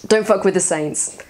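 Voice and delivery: put-on failed Cockney accent that sounds Australian; a rough Cockney boss line that slips into Australian; attempted Cockney gravelly boss. Telling a fan game quote in a botched Cockney accent. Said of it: "That's ended up sounding Australian".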